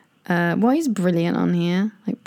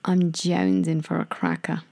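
American accent; 2 semitones lower than usual. Shown as a demonstration. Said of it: "think of my American accent".

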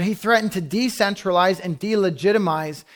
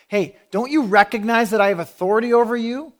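higher-pitched, indignant question; raised pitch, pressing the question; lightly acted challenge; 4 semitones higher than usual. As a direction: pull rank in a mildly acted challenge. Pilate challenging Jesus in retold exchange.

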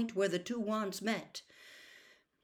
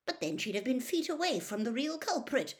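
higher, impatient objection; 8 semitones higher than usual. A narrator's reading. Mister Diggory objecting to Weasley's explanation, impatient. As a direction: cut in with impatience. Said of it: "said Mister Diggory impatiently".

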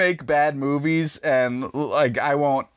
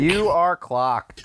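slow announcer call; 4 semitones higher, much slower than usual. Acted. Announcing the timer start.

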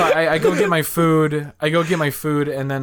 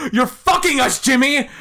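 high-pitched mock outrage; imitated outraged teammate; 13 semitones higher, 3 dB louder than usual. Teammate grabbing him by the shirt, mock outrage. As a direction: protest wildly, half laughing by the end.

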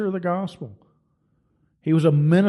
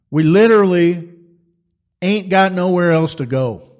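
loud plea; 6 dB louder than usual. Acted. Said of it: "He said".

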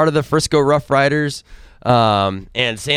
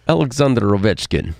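put-on Russian accent on the name, said briskly; 4 semitones lower than usual. Asked to try once more, a firmer Russian accent. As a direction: nail the Russian accent this time. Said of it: "that was good".

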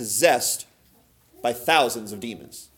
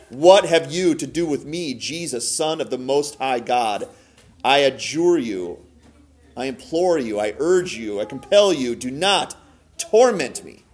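slow, emphatic plea, partly raised voice; mildly raised voice, leaning on each appeal; crying out; slower than usual. Acted. Possessed man imploring Jesus not to torment him, mildly crying out. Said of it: "crying out with a loud voice".

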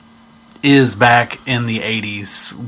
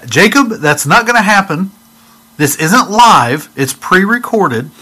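dad voice, louder; 7 semitones higher, 5 dB louder than usual. Retold or imitated. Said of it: "Uncle Fred repeated".

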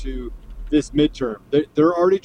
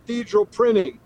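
choppy dropping-out connection; words breaking up mid-call; frozen video call. Real, not acted. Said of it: "Joe, we're losing you".

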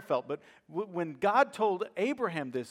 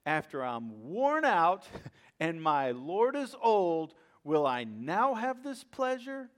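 wry laugh; 2 semitones higher, slower than usual. Retold or imitated. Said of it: "Sarah laughed at herself".

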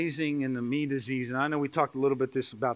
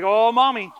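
put-on high, loud little-kid tattle; imitated tattletale kid; tattling child; 9 semitones higher, 12 dB louder, slower than usual. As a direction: tell on daddy in a mock child's whine, drawing out the end. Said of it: "our kids are gonna be here".

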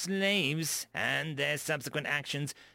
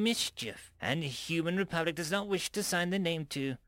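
menacing; 6 semitones higher than usual. A narrator's reading. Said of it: "slowly and with menace".

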